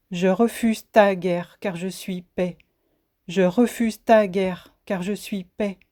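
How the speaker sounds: measured poetic refrain, falling away on each second half; solemn refrain. Acted. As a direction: declare each refusal firmly, let the answer drop. Closing refrain of the poem.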